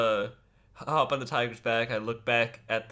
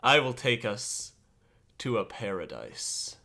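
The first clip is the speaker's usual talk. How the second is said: slow, solemn pronouncement, falling away; grandiose character voice; slower than usual. Acted. Player answers the tiger as self-styled leader, slow grand promise. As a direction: proclaim it slowly with dramatic pauses. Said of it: "developed this whole character".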